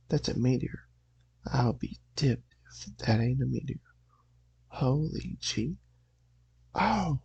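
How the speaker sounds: lightly put-on Southern country accent; amateur Southern accent, astonished at a meteor. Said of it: "I'm gonna attempt a southern accent".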